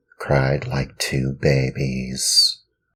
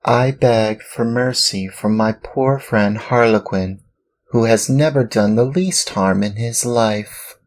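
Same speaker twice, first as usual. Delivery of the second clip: much higher, pleading Pinocchio; pleading puppet boy; 8 semitones higher, 4 dB louder than usual. Acted. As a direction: beg the master with rising pitch.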